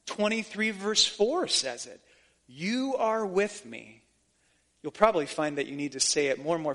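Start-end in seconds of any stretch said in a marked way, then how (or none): 2.5-4.0 slow prayerful reply. Shown as a demonstration. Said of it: "say it back to him".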